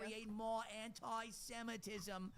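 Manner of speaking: put-on high whiny Yiddish accent. Mock Jewish voice to Ben Shapiro.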